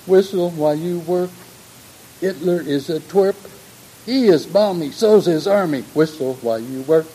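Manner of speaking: high, loud Cockney sing-song; Cockney accent. Retold or imitated. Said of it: "I can't do a Cockney accent, but I'll try".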